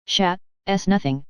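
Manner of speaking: put-on slow, thick drunken mumble; drunken slur. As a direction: slur it like a drunk after a fall. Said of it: "He spoke very thickly".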